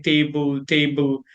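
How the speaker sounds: "table" as TAY-bul, full long A; very flat. Shown as a demonstration. Learner shows how she always said it, flat pronunciation. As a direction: say "table" evenly with both syllables full. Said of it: "very flat".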